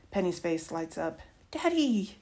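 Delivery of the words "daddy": put-on high, loud child's call falling away. A narrator's reading. Little girl spotting dad in the driveway, high excited call. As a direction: call it like a delighted little kid. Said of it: "she calls out".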